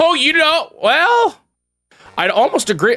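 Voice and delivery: voice cracks up very high. Looking over wedding pictures, half agreeing with someone, voice cracking. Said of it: "excuse me, voice crack".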